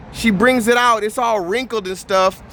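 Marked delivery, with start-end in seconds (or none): none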